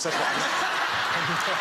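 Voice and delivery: laughing hard as he speaks; laughing at the mix-up. Real, not acted. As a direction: push the words out through laughter. Laughing through the words.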